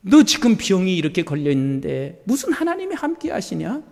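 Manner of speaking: a hint of a sneering devil; taunting Satan voice. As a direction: play the tempter low-key. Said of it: "이렇게 말해요".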